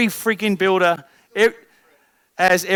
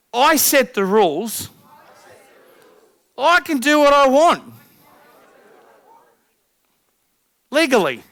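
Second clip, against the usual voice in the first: higher, louder rallying chant; loud affirmation; 7 semitones higher, 7 dB louder than usual. Shown as a demonstration. Coach leading the audience in a loud affirmation. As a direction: call it out like a battle cry. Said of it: "say it now out loud".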